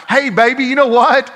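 high, coaxing retold sweet-talk; buttering her up. Father placating his crying daughter, buttering her up. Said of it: "I'm trying to butter her up".

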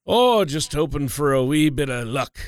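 light put-on Irish brogue, playful; a hint of Irish brogue, half-joking. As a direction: lilt it like a mock Irishman on Saint Patrick's Day. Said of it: "You got a good little brogue".

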